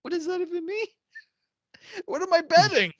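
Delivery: high, loud baffled questions; confused disbelief. Retold or imitated. Confused by a friend's slang text, high baffled questions. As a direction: act totally lost by the slang. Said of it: "I was like".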